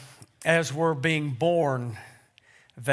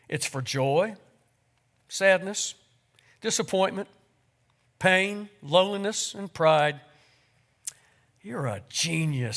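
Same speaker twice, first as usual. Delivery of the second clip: warm, unhurried reading of a tribute to a congregation; story reading. Acted. Pastor reading Erma Bombeck's tribute to mothers to his church, gently storytelling. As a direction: read the tale aloud to the church, voicing each figure.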